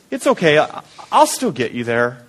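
reassuring voice. Retold or imitated. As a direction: reassure a lost driver, lightly voiced. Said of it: "it's that reassuring voice".

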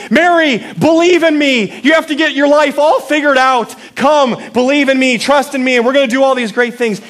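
mock over-the-top revival shout; hammed-up hype. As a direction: sell it like a fireworks show. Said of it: "with fireworks and jumping up and down".

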